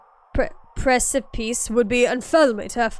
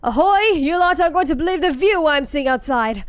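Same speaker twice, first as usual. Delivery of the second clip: loud call; 3 semitones higher, 4 dB louder than usual. Acted. Character calls out excitedly.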